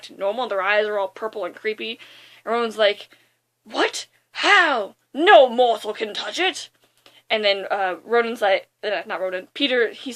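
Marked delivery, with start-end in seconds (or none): 3.6-6.7 loud-edged, incredulous outburst; mock villain disbelief. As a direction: act the stunned villain, lightly hammed-up. Villain stunned that they survive.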